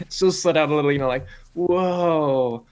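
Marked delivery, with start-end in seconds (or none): 1.5-2.7 surprised. Acted. Player voices character's delighted surprise.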